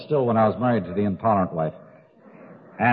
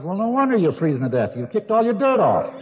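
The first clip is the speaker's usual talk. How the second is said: put-on higher, louder old wino; 8 semitones higher, 4 dB louder than usual. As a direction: deliver the punchline as a wino. Wino delivers the punchline.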